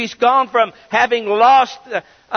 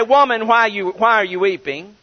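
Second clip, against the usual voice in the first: a curt, blunt "Woman, why are you weeping?" with "Woman" pressed hard; blunt address. Shown as a demonstration. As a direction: call her "Woman" like a cold command. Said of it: "They didn't say".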